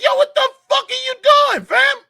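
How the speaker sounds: very high, loud outraged yell. Retold or imitated. Ranting to cohost about the press secretary, very high outraged yell. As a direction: scream at her in disbelief.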